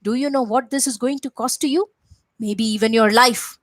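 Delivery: angry Ravana. Acted. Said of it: "Ravana looked at Hanuman and said".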